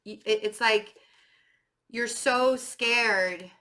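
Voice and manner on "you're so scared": ordinary talk, nothing marked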